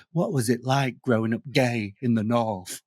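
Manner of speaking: lightly voiced posh producer; a hint of a plummy TV type. Posh TV producer asking about growing up gay. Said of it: "a posh T V producer said to me".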